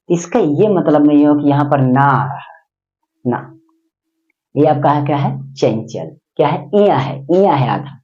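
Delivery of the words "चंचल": चंचल with the dot said as a nasal n; falling, softer चंचल with a nasal half n; nasalised pronunciation. Shown as a demonstration. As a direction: say चंचल with a nose-made half n after the first च. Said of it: "नाक से बोलिए".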